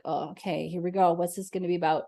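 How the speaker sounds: guarded, unimpressed "oh, okay"; skeptical sitter. Retold or imitated. Skeptical client arriving for a reading, guarded and unconvinced. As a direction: arms crossed, doubting the reading. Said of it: "they got their closed arms".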